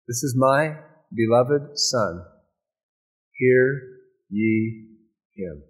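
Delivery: slow, solemn, lightly voiced divine voice; voice from heaven. Preacher voicing God speaking from heaven, slow and solemn. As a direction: pronounce it slowly like a voice from the sky. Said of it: "a voice came from heaven".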